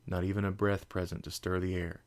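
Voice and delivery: ordinary delivery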